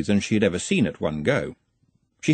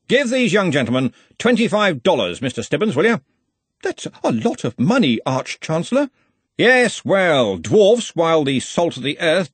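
jovial with an edge; 7 semitones higher, 4 dB louder than usual. A narrator's reading. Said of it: "He said it jovially, but there was an edge".

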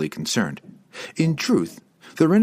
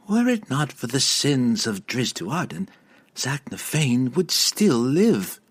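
prodding; 5 semitones higher than usual. Acted. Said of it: "she prodded".

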